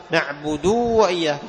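نعبد with its short final u held as long uu; wrong over-lengthened vowel. Shown as a demonstration. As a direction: slowly drag the end of نعبد into وإياك. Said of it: "خطأ".

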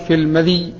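"المذي" with i after dhal and still ya; كسر الذال. Shown as a demonstration. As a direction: say "المذي" as al-ma-DHEE, single long final vowel. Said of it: "وبكسر الذال وإث-، وإسكان الياء". (نطق "المذي" بكسر الذال وإسكان الياء)

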